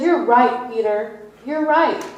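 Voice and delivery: loud, high hearty agreement; emphatic affirmation. Retold or imitated. Jesus praising Peter's confession, loud and high. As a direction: affirm him with conviction.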